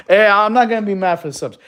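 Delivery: loud, high, through laughter; real laugh carried into the words; amused protest. Real, not acted. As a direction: call it out while laughing. Laughing at subscribers in chat.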